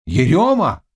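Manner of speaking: a single voice raising the alarm; crying out. A narrator's reading. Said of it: "крикнул кто-то".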